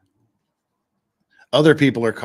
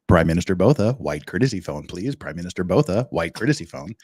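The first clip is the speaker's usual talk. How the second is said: lower, deadpan paging voice; PA announcement; 6 semitones lower than usual. Retold or imitated. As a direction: page him like an airport speaker. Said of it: "Robin Williams' old comedy album joke".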